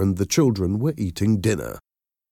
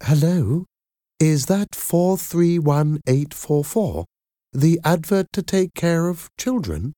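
higher-pitched, warm phone voice; warm caller; 10 semitones higher than usual. A narrator's reading. Caller asking about a childcare advert, warm. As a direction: inquire warmly in a lifted, slightly put-on voice. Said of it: "This caller's voice was warm".

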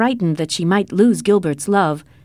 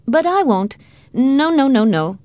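high, insistent string of refusals; emphatic refusal; 7 semitones higher than usual. A narrator's reading. Uncle refusing to ride along, emphatically. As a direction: refuse firmly, pitch jumping up.

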